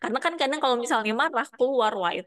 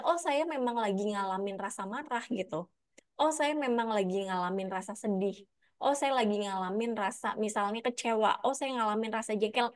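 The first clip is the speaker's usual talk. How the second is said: softer, calm inner naming of feelings; calm self-acknowledging; 5 dB quieter than usual. Pretend. Person quietly naming their own anger to themselves, calm. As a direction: gently admit the feeling to yourself. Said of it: "sadari aja".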